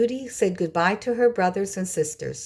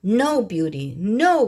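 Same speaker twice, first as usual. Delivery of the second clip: brothers cry out; 2 semitones higher, 4 dB louder, slower than usual. A narrator's reading. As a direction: cry no to stop her going. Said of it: "cried her brothers".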